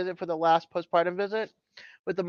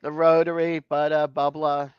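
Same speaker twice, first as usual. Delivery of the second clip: Boston accent; 3 semitones lower than usual. Shown as a demonstration. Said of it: "my Boston accent is coming out tonight".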